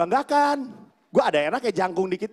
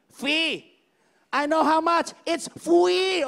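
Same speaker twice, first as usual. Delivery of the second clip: pitched up, a touch of exasperation; exasperated receptionist; 7 semitones higher, much slower than usual. Retold or imitated. Receptionist correcting the comedian with mild exasperation. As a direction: correct him impatiently. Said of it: "It's fee".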